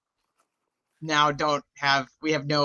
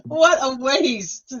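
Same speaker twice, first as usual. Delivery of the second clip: slow drawn-out lament; 8 semitones higher, much slower than usual. Real, not acted. Complaining to her co-host, drawn out slowly. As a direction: drag out what a waste, slow and high. Lament over wasted reading.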